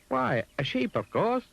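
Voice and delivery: high and brightly sure; high Mister Dizzy. Acted. Mister Dizzy answers the pig, high and sure. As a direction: answer with easy confidence.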